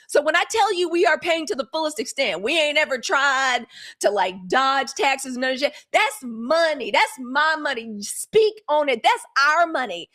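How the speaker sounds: fired up about the money, building; getting excited. Real, not acted. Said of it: "I know I'm getting a little excited".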